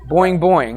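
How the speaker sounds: springy "boing, boing" sound effect; two bouncy vocal boings; imitated boing. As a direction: mimic a rope bouncing. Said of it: "that's the sound that it made".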